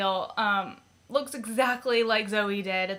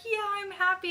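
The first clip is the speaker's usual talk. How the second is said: retold reassurance; 11 semitones higher, faster than usual. Acts own reply to excited tech.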